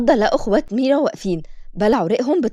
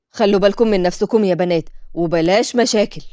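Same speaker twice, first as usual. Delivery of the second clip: grandmother's caution; 2 semitones lower than usual. Acted. Grandmother warns girls.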